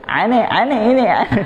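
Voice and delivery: high, mocking "Aine, aine" like a film fake Arab. Teacher mocks film actors faking Arab speech, high and laughing. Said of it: "di film-film yang ngaku-ngaku Arab".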